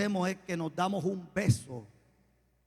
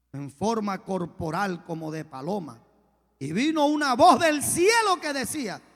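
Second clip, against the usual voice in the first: scripture told with rising force; rousing preaching; 2 semitones higher, 5 dB louder than usual. Real, not acted. Preacher announcing the voice from heaven, rousing preaching.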